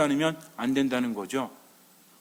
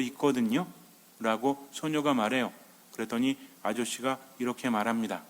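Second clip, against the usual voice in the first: measured storyteller's voice, a touch lower; narrating a tale evenly; story narration; 3 semitones lower, 3 dB quieter than usual. A narrator's reading. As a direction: tell it like a fairy tale for grown-ups. Tells own made-up fairy tale.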